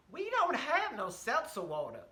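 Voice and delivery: a flat Southern no; waitress turning down the order in a Southern accent. Retold or imitated. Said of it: "my Southern accent of that woman".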